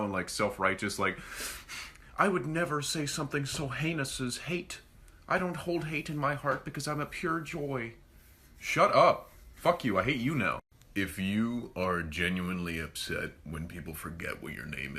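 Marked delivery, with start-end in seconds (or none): 2.2-7.9 holier than thou. Retold or imitated. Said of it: "wanna sound holier than thou". 8.6-10.6 mock angry outburst.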